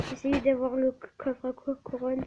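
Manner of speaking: tripping over the first syllables; real stumbling gamer stammer. Real, not acted. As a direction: stutter on co-, co- before the word comes out. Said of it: "Excusez-moi si j'ai bégayé".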